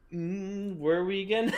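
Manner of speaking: high, loud puzzled put-on voice; mock confusion. Reader losing track mid-chapter, high mock-confused voice. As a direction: play a lost reader, pitched right up.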